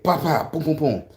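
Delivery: quick imitated punching noises; mimicked blows. Retelling a squirrel beating up another, mimicked blows. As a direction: punch out comic impact sounds.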